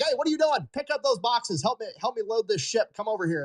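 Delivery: high, loud dockworker yelling orders; retold yelling. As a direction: bark orders at the kid across the dock, fading off at the end. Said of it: "somebody just starts yelling at him".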